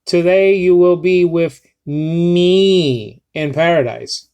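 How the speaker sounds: slow, weighty, with today and me leaned on; emphatic quote. Shown as a demonstration. Teacher reading the verse to the class with emphasis. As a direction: declaim it like a solemn promise. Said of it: "Jesus is saying it in an emphatic way".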